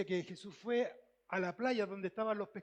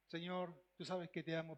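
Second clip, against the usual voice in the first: softer, lower and humble; humble soft answer; 5 semitones lower, 7 dB quieter than usual. Acted. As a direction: answer like a man ashamed. Peter answers Jesus humbly. (respuesta humilde, más suave y grave)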